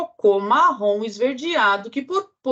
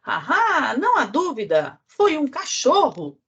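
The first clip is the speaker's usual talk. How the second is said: flies' verdict; 6 semitones higher than usual. Acted. Moscas dão o veredito.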